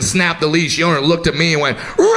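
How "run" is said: long, drawn-out yell; panicked warning shout. Retold or imitated. Dog owner warning the man as the dalmatian breaks loose, panicked yell. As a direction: scream a warning to get away.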